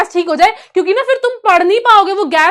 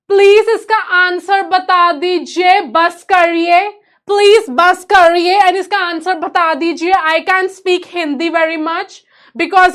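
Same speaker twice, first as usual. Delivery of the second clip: hammed-up begging, drawn out; playful over-the-top plea; overacted pleading; much slower than usual. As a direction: plead slowly in mock helplessness. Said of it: "over acting के".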